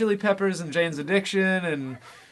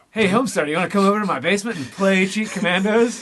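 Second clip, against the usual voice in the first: mock cartoon voice; 4 semitones higher, 3 dB louder, faster than usual. Voicing a cartoon character's invitation.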